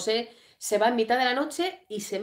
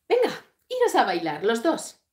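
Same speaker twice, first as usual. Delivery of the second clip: acted insistent order; 2 semitones higher, 4 dB louder than usual. Acting out Franz Josef ordering a dance.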